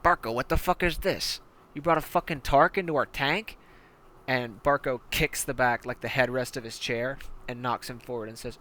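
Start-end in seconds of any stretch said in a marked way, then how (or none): 0.0-3.6 a touch higher, lightly voiced goblin; mild annoyed goblin gunner. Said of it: "who turns over to you and says".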